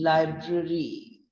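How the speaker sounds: "library" ending in a clear double-E sound; ending on long EE. Shown as a demonstration. Teacher modelling the word library for learners, long-ee ending. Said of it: "it's the sound of".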